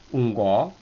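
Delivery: "Un go" from a low start; low-accent model of "Un go". Shown as a demonstration. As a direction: keep the "Un" of "Un go" down. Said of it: "acento bajo".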